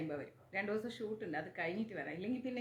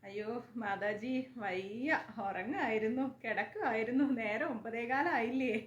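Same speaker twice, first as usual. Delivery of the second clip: sleepy viewer; slower than usual. Retold or imitated. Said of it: "ഉറക്കച്ചടവിൽ എഴുന്നേറ്റ് വരുന്നതാണ്".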